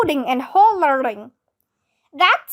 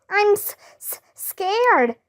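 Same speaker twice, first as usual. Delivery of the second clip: stammering scared; 7 semitones higher than usual. A narrator's reading. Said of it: "had a reason to be scared".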